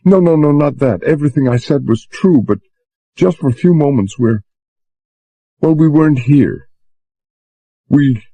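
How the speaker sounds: lightly voiced distressed girl; young woman urging him to understand; Susan's voice. A narrator's reading.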